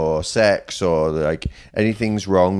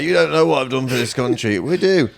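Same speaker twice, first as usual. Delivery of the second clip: insecure veteran; 7 semitones higher than usual. Acted. Veteran insisting nobody values his service, mock insecure whine. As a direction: act out a needy veteran's protest. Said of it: "idea of the insecure veteran".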